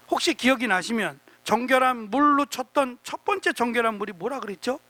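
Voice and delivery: muffled speech through a face mask. Real, not acted. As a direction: talk through a mask, words a little dull. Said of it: "마스크를 써서 잘 안 들려요". (마스크 쓰고 웅얼거리듯)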